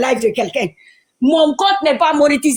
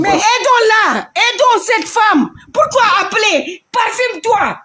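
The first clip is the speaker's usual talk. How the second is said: raised, slow, emphatic appeal; heated plea; 6 semitones higher, slower than usual. Real, not acted. Speaking to the live audience, a raised, slow plea. Angry plea to help the woman.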